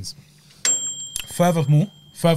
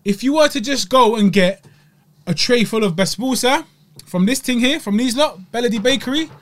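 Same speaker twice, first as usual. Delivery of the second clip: enthusiastic; 5 semitones higher, 3 dB louder than usual. Real, not acted. Enthusiastic recommendation.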